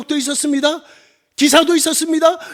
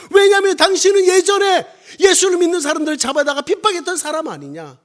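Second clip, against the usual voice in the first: raised, emphatic sermon voice; forceful preaching; 5 dB louder than usual. Real, not acted. Preacher challenges Paul's claim to be an apostle, forceful preaching. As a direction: drive each phrase home to the congregation.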